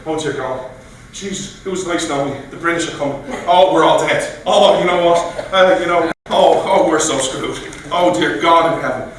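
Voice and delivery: mock terror, sure they're all dead; a despairing cry that all is lost; panicked Paul Revere. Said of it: "Imagine Paul Revere".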